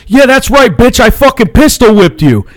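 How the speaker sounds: high-pitched imitation of a gloating rant; worked-up, high retold tirade; mock angry dad. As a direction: act out dad's furious boast. Acted angry dad in retold fight.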